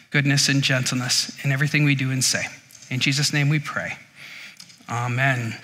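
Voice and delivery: hushed, reverent prayer to God; spoken prayer. Acted. Pastor leads congregation in prayer.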